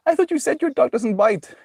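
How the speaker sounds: high, offended complaint; indignant victim. Retold or imitated. Mauled man protesting to the dog owner, high and indignant. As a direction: whine it like the bitten guy. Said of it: "And then he's like".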